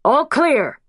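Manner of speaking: a medic warning before the paddles; defib call. A narrator's reading.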